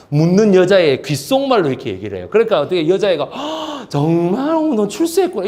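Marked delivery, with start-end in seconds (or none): 3.2-5.5 high gasping amazement with the pitch jumping up; amazed gasp. Retold or imitated. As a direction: gasp and marvel like an impressed girl. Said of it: "이러면서 끝나요". (헉 하고 놀라며 감탄하는 여자아이)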